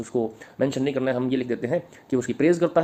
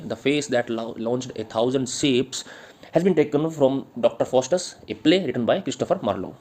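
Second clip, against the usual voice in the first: slow, spaced-out read-out; dictation; much slower than usual. Acted. Teacher giving students the poem's source, slow dictation. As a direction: dictate it phrase by phrase, taking your time.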